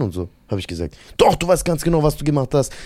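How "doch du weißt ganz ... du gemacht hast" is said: insistent accusation. Retold or imitated. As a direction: press the accusation as an imitated teacher. Accusation repeated after pupil denies it.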